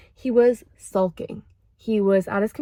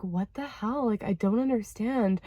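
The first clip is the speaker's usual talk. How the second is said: much softer, bewildered; hurt, confused murmur; 6 dB quieter than usual. Retold or imitated. Alone upstairs after being rebuffed, soft and bewildered. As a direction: say it to yourself, deflated and quiet.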